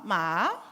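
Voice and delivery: "ma" swooping sharply up; Thai tone demo. Shown as a demonstration. Showing the audience three Thai tones, sharply rising "ma". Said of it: "São cinco tons, mas eu vou falar só três".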